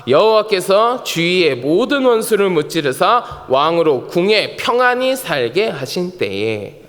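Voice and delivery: slow, measured scripture reading. Real, not acted. Pastor leads congregation in verse one, measured recitation. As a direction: read it slowly for all to follow.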